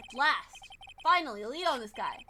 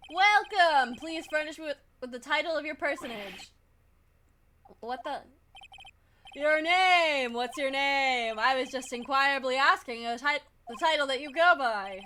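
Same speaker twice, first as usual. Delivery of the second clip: a hint of a grandiose tycoon; lightly voiced, puffed-up and self-important; pompous rich man voice; 4 dB louder than usual. Voices pompous CEO character.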